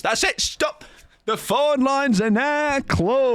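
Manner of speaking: mock announcer. Streamer ends the chat killer vote like a TV phone-in host.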